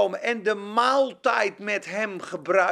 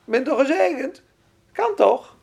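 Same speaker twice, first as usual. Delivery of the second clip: smug self-assurance; 4 semitones higher, 4 dB louder than usual. Retold or imitated. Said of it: "Misschien denken ze wel zo".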